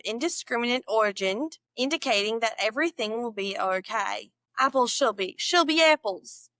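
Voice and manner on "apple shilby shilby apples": slipped from Aussie into Midwestern; accidental Midwestern accent. Shown as a demonstration. Learner judging her own slip, Midwestern accent. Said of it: "That was Midwestern".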